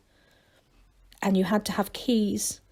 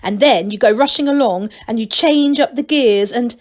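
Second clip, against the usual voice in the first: eager rush; 2 semitones higher, 6 dB louder than usual. Acted. Angelo enthusing, cut off.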